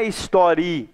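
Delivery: "história" partida, com "i" longo e "a" solto no fim; pronúncia errada separada. Shown as a demonstration. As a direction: separe o final de "história": histori... a. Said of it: "que a gente fala". ("história" com i e a separados)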